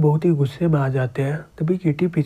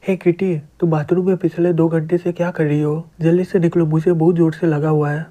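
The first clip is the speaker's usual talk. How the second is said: louder, impatient calling through a door; urgent shout through door; 4 dB louder than usual. Acted. Howard yelling at Kitty to leave the bathroom, desperate. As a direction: pound on the door and hurry her out.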